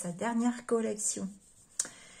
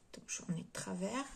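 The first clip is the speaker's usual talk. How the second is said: whisper; 8 dB quieter than usual. Real, not acted. Whispered aside while showing stamps.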